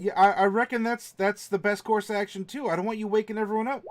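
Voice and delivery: agree, then mildly chide the guest; practical watchman. Acted. Watchman protecting his sleeping customers, mildly scolding.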